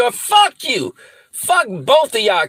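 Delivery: angry shout. Real, not acted. Cursing the two women.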